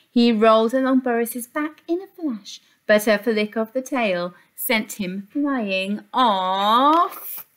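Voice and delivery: put-on lively storybook reading for kids; reading to children. A narrator's reading. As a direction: read it like a picture book to little ones. Reads picture book aloud.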